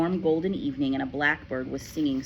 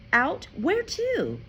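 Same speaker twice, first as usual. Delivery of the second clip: put-on higher startled girl's voice; a child's shocked echo; surprised girl; 12 semitones higher, 4 dB louder, much slower than usual. A narrator's reading. Matilda echoes her father, startled. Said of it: "Matilda cried".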